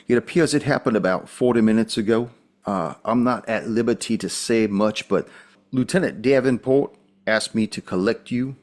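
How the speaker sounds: lightly voiced Southern police officer; guarded officer with a mild Southern accent. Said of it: "very different than the traditional accent".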